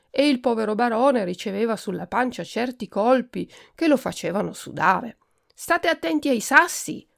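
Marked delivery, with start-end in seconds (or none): 5.5-7.1 much higher, anxious entreaty; pleading. A narrator's reading. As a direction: beg them with clasped hands. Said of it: "si raccomandava giungendo le mani".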